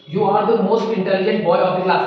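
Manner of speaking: slow but joined into one line; teacher reads the finished example sentence in one go; whole sentence read through. Shown as a demonstration. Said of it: "एक sentence दिया गया".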